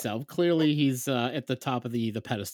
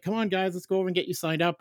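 higher-pitched, quick dad call; rallying the kids; 6 semitones higher, faster than usual. Retold or imitated. Dad herding his kids to Jedi sign-up, upbeat rallying. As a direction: chivvy the kids along brightly.

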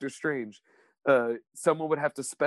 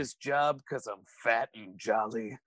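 Mel Gibson. Acted. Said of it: "that was a good Mel Gibson as Fat Man".

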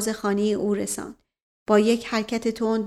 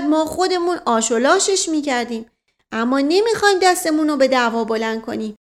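self-justifying servant, high and emphatic; innocent-acting servant; 5 semitones higher, 4 dB louder than usual. A narrator's reading. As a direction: protest innocence, then brag. Servant figure, feigning innocence.

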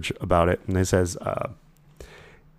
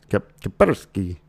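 slow put-on Russian accent; slower than usual. Host naming a security firm in a mock Russian accent. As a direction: drawl the name in a Russian accent. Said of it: "I wanted to do the Russian voice again".

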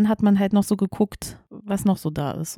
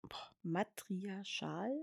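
stifled giggles; 20 dB quieter, much slower than usual. Real, not acted. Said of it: "es ist endanstrengend für mich".

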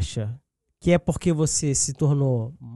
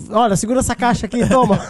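imitating Brit; 6 semitones higher, 6 dB louder, faster than usual. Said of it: "Fala assim".

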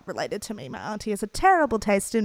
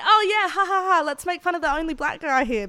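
mock laughing along; 7 semitones higher, 4 dB louder than usual. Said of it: "we'd be like".

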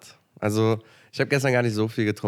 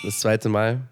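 surprised; slower than usual. Real, not acted. Teasing disbelief at makeup.

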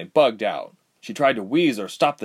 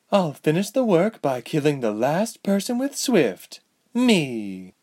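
maniacal villainess; 5 semitones higher than usual. Acted. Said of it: "with a maniacal look in her eye".

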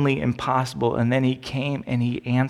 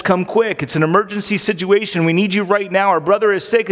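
urgent, raised voice; frantic plea; 5 semitones higher, 3 dB louder than usual. Retold or imitated. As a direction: beg for help in a hurry. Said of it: "and they were frantic".

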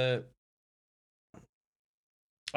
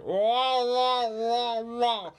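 high, loud drawn-out yowling; imitated cat yowl; 13 semitones higher, 6 dB louder, much slower than usual. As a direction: wail like a cat in heat. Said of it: "she's just like".

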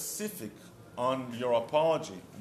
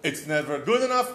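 angry wife; 5 semitones higher, 3 dB louder than usual. Retold or imitated. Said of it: "And your wife is".

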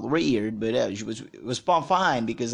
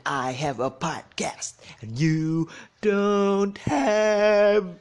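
whisper; 8 semitones higher, much slower than usual. Pretend. Whispered playful brag.

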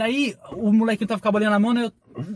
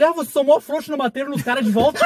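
segurança imitado; 4 semitones higher than usual. Retold or imitated.

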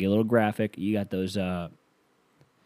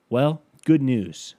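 slow, higher, louder pitchman; commercial voice; 5 semitones higher, 6 dB louder, much slower than usual. Shown as a demonstration. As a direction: announce the good news. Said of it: "take two".

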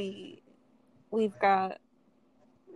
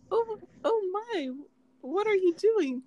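high, fluting mock British; attempted British accent; 10 semitones higher than usual. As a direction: put on a badly faked British voice. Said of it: "I can't do a British accent".

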